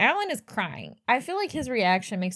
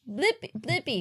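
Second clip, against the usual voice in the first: put-on high, quick children's-host call; high-pitched mimicry; 6 semitones higher than usual. Recalling a children's YouTuber to a co-host, high-pitched mimicry. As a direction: mimic a kids' show host.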